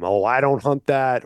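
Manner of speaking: a light Southern twang on a scoffing hunter; a hint of Southern accent, half-hearted. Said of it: "sorry for doing the Southern accent on that".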